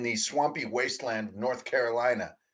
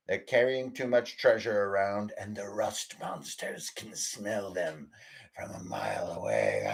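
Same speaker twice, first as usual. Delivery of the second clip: captain's log narration; 3 semitones lower than usual. Acted.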